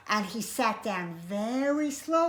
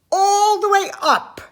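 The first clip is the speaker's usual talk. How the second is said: high, loud stretch of words; loud, high storytelling emphasis; rising suspense; 9 semitones higher, 12 dB louder than usual. A narrator's reading. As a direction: swoop up high as if gazing into treetops. Looking up into the tree.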